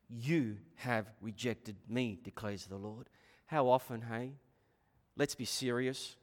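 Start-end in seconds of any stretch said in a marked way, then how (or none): 0.1-3.1 quiet, slow, solemn delivery of the line; hushed. Shown as a demonstration. Preacher repeating God's words softly to the congregation. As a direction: let the words drop soft and grave. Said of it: "But pay attention there".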